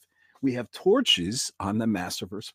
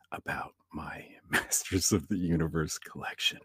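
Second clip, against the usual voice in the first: hushed seance whisper; 7 semitones lower, 7 dB quieter than usual. Acted. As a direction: whisper it, lights off.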